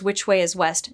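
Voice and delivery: flat, with no feeling at all; no emotion. Retold or imitated. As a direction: ask it completely deadpan. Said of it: "No emotion whatsoever".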